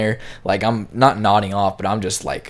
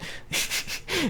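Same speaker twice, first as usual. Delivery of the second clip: quiet laugh; 12 dB quieter than usual. Real, not acted. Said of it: "yeah, I'm laughing at that shit".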